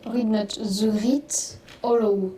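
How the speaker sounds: slow, careful English with a strong French accent. Real, not acted. Streamer reading the English item name in a French accent. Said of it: "j'ai aucun accent".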